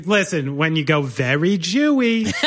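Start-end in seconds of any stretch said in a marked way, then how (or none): 1.0-2.3 tag of mock Jewish accent. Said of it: "throw on a little Fran Drescher there".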